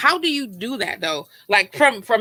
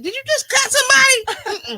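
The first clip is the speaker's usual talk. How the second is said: much higher, laughing mock-shocked lady; shocked woman's voice; 13 semitones higher, 4 dB louder than usual. Voicing the woman in her story: a much higher, laughing, shocked squeak. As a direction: play the stunned onlooker, squeaky and giggling. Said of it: "so the woman".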